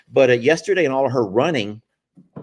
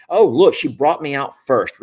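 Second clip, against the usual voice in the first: lightly voiced eager horse, louder; proud horse; 2 semitones higher, 7 dB louder than usual. Horse thinks she was chosen first, lightly mocked pride. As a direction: play a mildly self-important mare. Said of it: "she feels like she's doing something".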